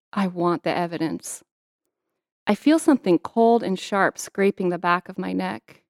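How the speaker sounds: measured first-person story narration; narrating from the page, evenly paced; memoir reading. A narrator's reading. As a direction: read the passage aloud as a storyteller. Reads her memoir aloud.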